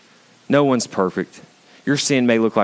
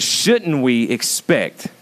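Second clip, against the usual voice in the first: SHOULDN'T WE EXPECT drawn out as a question; slow, pointed question on "Shouldn't we expect"; questioning intonation; 3 semitones higher, much slower than usual. Shown as a demonstration. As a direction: ask "Shouldn't we expect" slowly, rhetorically. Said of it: "A question with intonation".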